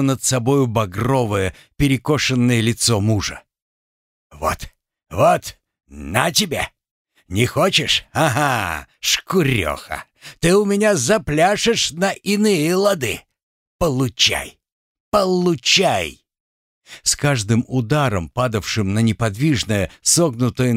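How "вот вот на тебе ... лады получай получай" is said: furious, slow hammering blows of words; beating rage. Acted. Husband beating his wife on the floor, furious. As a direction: snarl with each blow.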